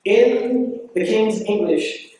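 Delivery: slow, drawn-out posh English accent; in the King's English, slowly. Shown as a demonstration. Speaker demonstrating the King's English accent to audience. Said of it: "what we're talking about is".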